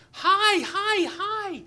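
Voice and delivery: high, loud repeated calls; frantic shouted hails. Retold or imitated. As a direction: call out frantically across the water. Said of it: "waving a little more frantically".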